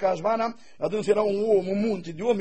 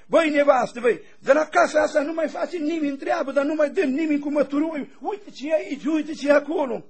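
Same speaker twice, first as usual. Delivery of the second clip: angry husband scolding; 4 semitones higher than usual. Retold or imitated. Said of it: "el mânios de la servit".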